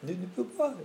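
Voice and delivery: put-on French accent. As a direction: imitate a French speaker's lilting tune. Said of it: "say, French".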